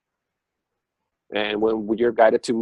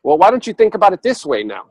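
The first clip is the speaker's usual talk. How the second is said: universe advising; 3 semitones higher, 4 dB louder than usual. Retold or imitated. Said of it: "And say".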